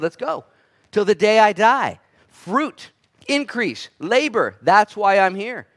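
high, punchy battle cry; rallying warrior. Acted. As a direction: declare it like a fighter charging uphill. Acts out Caleb's battle cry.

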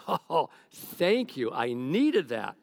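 long, drawn-out grateful sigh of thanks; slow, heartfelt relief. Acted. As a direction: savour the thanks slowly, deeply relieved. Acted relief at timely word.

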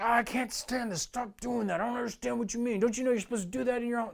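a hint of a fussy, exasperated listener; mock irritated complaint. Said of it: "just irritated".

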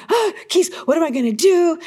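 frantic mock panic over locked car keys; mad panic. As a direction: squeal it out like you've lost the keys. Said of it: "in a mad panic".

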